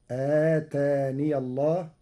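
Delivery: "آتاني" as ataniya before "الله"; open ya kept. Shown as a demonstration. Sheikh demonstrates Warsh, "آتاني" joined as ataniya. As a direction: sound the ya of "آتاني" with a short a. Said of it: "بإثبات الياء مفتوحة وصلا".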